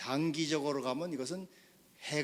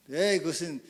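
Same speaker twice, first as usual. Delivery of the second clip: acted protest, a bit louder; strong denial; 4 semitones higher, 7 dB louder than usual. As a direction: refuse the diagnosis as the patient. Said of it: "강한 부인을".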